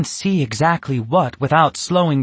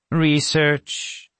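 dubious; 4 semitones higher than usual. Acted. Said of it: "Natasha asked dubiously".

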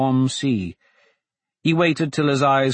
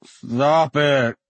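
slurred. Acted. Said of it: "Dante slurred".

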